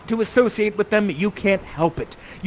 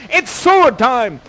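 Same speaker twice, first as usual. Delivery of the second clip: loud, slow, higher proclamation; battle cry; 5 semitones higher, 7 dB louder, slower than usual. Acted. Ferdinand takes up arms, theatrical battle cry. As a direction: announce the fight with drawn-out relish. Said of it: "and says".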